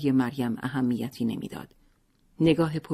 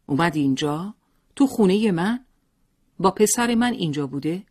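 rising, louder questioning; a jealous husband demanding answers; angry husband; 5 semitones higher, 4 dB louder than usual. A narrator's reading. Husband furious about wife's visitor.

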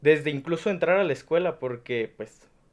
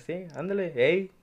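put-on Nayarit accent; 4 semitones higher than usual. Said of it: "hablas como Nayarita".

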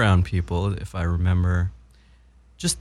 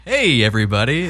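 louder, higher mock hello to the room; imitated cheery greeting; 4 semitones higher, 4 dB louder than usual. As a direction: greet everyone like the charming newcomer. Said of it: "he's just like".

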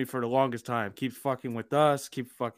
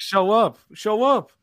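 shouting it twice, louder and higher; angry shout; 9 semitones higher, 8 dB louder, slower than usual. Acted. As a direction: yell show up in frustration. Angry demand at meeting.

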